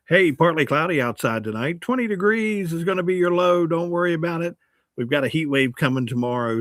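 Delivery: casual, folksy forecast in your own voice; natural radio read. Shown as a demonstration. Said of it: "Read it in your voice".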